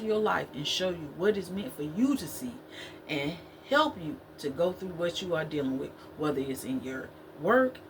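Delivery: low steady prayer voice. Acted. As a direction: pray over the listeners, earnest and calm. Closing prayer over viewers.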